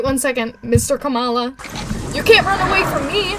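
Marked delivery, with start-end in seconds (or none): 2.1-3.4 higher and louder, angry call; threatening shout. Acted. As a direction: yell it after the fleeing creature. Chasing Mister Kamala again.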